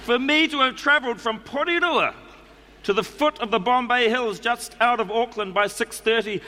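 put-on reading a letter in a New Zealand accent; a relaxed Kiwi accent all through. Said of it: "I'm going to do it in the New Zealand accent".

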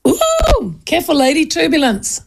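high swooping ooh, then a teasing caution; playful high-voiced warning; mock warning. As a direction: tease with a high-pitched mock alarm. Mock warning to stomping hostess.

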